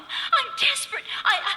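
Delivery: desperate. Acted. Frightened wife pleading on phone.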